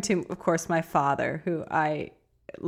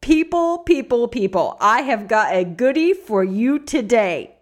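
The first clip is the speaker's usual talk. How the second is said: excited announcing; 3 semitones higher, 4 dB louder than usual. Real, not acted.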